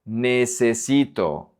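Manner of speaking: Necesito slowly, both E's as pure "eh"; clear E's. Shown as a demonstration. Teacher drawing attention to the E's, slow clear Necesito. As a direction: keep each e in Necesito a clean "eh". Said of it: "Attention with the E's".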